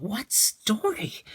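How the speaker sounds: put-on high, slow curious child voice; child's question. Leo asks the storyteller which story, high child voice. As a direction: ask like an eager little boy.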